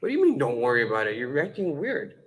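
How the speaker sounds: quick, exasperated challenge, lightly acted; heated husband. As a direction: act out a husband starting to lose patience. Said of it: "now he starts getting heated".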